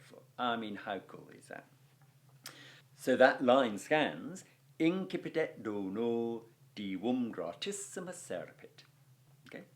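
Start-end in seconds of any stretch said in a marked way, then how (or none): 4.8-8.8 scanned verse reading. Shown as a demonstration. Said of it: "You can hear the line scanning".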